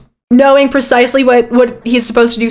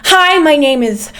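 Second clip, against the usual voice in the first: awkward introduction; 3 semitones higher than usual. Acted. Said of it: "holds out a stiff, awkward hand and goes".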